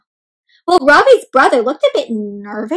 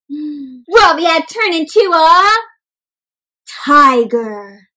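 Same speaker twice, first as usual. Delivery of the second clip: mock surprise; 3 semitones higher, slower than usual. Dramatic reveal in story.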